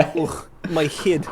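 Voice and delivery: put-on slow, groggy Russian accent; shaky attempt at a Russian accent. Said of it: "do my Russian accent".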